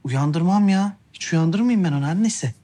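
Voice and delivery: loud protest. Acted. Protesting he won't wake baby.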